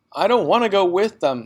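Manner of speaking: high, loud defiant cry; girl refusing to leave with parents; child's shout. Acted. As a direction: burst out in protest. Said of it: "Matilda shouted suddenly".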